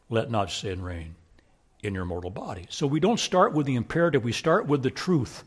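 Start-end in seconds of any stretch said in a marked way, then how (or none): 0.1-2.7 dropped low and soft; solemn low quotation after the shout; hushed. Acted. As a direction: pull back to a quiet solemn hush. Sudden hush after climax.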